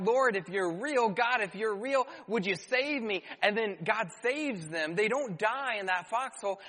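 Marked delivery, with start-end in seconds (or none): 0.0-3.2 raised, pleading prayer; mock desperate plea to God; acted crying out. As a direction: cry out lightly, as if begging for rescue. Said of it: "they cry out".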